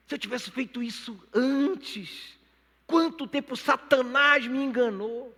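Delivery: high, slow, impassioned lament; drawn-out re-enacted outcry; anguished regret. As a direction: cry it out, rising to loud at the end. Acts his regret over lost years.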